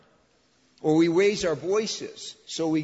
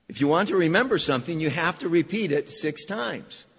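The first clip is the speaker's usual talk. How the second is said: louder, faster, driving it home; emphatic repeat; 4 dB louder than usual. Shown as a demonstration. Preacher repeating the saying to his congregation, loud and quick. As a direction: hammer the line to make them remember. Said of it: "Guess what comes next?".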